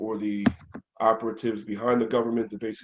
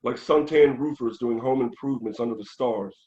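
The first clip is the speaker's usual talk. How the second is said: rhythmic spoken-word delivery, firm opening; verse reading. Acted. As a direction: recite the satirical verse line by line, riding the meter. Reads verse from own book.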